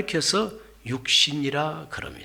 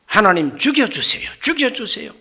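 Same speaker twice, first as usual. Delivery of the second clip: higher, petulant plea to die; sulking Jonah's plea; 4 semitones higher than usual. Retold or imitated. Jonah begging God to let him die, petulant. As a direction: whine it like a spoilt prophet. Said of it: "요나가 얼마나 성질이 못됐든지".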